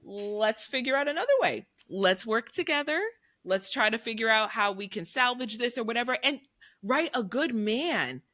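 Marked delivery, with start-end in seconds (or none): 0.0-6.2 bright reassurance. Retold or imitated. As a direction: lift the voice to calm him. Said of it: "And it's like".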